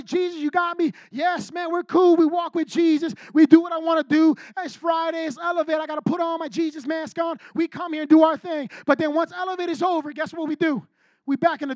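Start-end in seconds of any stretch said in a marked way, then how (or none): 0.0-8.7 mock churchgoer. Mocking a fake churchgoer.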